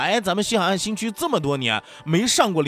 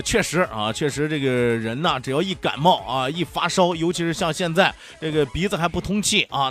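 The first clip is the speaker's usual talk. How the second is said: stuffy nose, sick with a cold; blocked nose. Real, not acted. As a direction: talk through a blocked nose. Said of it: "你的声音囔囔的啊".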